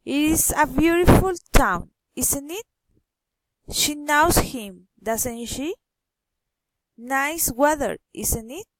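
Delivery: statement first, then ISN'T IT and DOESN'T SHE turn upward; tag question intonation. Shown as a demonstration. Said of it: "falling or rising intonation".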